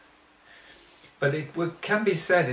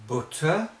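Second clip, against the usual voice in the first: butter with the northern oo vowel, said "butter" like "bootter"; northern English way of saying butter; 3 semitones higher than usual. Shown as a demonstration. Teacher demonstrating the northern England vowel in butter. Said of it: "as it's said in the north of England".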